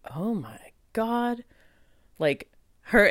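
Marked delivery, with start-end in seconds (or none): 0.1-1.4 slow, higher unvoiced whisper of wonder; awed whisper. As someone sits beside her: slow, awed whisper. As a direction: breathe it out in awe. Sensing a nurturing energy.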